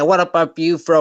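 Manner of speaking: mimicking an American streamer's slang; lightly put-on American accent, teasing; mock American accent. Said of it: "I'll talk like you".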